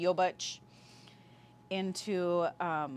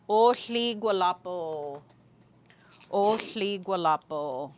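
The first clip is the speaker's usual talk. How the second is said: ceremonial call out; 4 dB louder, slower than usual. Retold or imitated. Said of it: "what they say at each corner".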